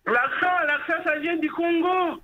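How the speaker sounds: French with a gentle Congolese accent; soft Congolese accent. Real, not acted. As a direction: speak with a real Congolese lilt. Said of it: "il est doux ce petit accent".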